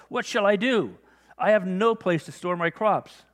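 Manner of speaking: high, loud and slow, a rich farmer fretting over his crops; fretting rich man. Acted. Rich man's worried words in parable.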